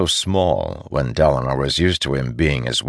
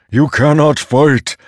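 slow booming rumble, higher and louder; rumbling louder; 10 semitones higher, 8 dB louder than usual. A narrator's reading. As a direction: thunder it out slowly. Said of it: "his voice rumbling louder now".

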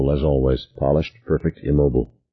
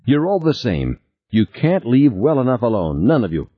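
raised, tight and bitter; tight angry voice; 5 semitones higher than usual. Acted. Beth rails at all men, tight and angry. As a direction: spit out the contempt, higher pitched. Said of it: "in a tight, angry voice".

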